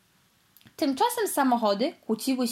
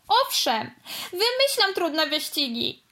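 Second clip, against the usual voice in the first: shouting back; 7 semitones higher than usual. Acted. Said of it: "krzyknęła żółta wyścigówka".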